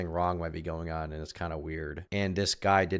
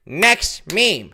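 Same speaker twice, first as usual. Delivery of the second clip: pundit voice; 11 semitones higher, 10 dB louder than usual. Shown as a demonstration. Pundit voice continued.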